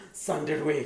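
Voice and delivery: French teacher refusing the trip, high and prim; stern little teacher. Retold or imitated. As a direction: forbid it in a tiny prim voice. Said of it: "teacher forbidding her".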